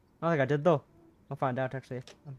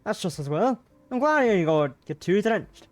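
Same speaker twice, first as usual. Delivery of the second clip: louder worried Scottish gentleman; Mr Brown, concerned; 4 dB louder than usual. Acted. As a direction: fuss over her a little louder.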